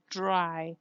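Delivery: "dry" with a buzzed R after D; "dry" with DR close to a J sound; fricative R. Shown as a demonstration. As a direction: add friction to the R in "dry". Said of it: "It becomes a fricative".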